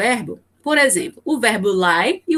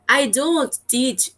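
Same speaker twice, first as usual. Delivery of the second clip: slow example read; 2 semitones higher, much slower than usual. Shown as a demonstration. Teacher reads English example.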